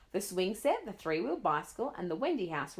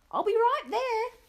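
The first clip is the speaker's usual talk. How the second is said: hurried promise; 7 dB louder, slower than usual. Acted. Panicked child answering angry mother.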